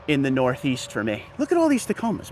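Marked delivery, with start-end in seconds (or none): 1.4-2.3 excited. Real, not acted. Amazed at rows of trucks.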